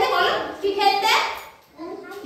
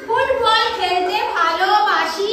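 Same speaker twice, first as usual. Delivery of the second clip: each word slow and clear; slow modelling; much slower than usual. Shown as a demonstration. Teacher models a full sentence for a child, slowly. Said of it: "ওইভাবে না, বলো".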